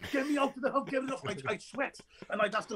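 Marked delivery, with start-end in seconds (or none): 0.1-1.2 high, urgent get it off; pleading to be let out, high-pitched; frantic plea. Retold or imitated. Actor stuck in the Humvee, high and frantic. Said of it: "I say".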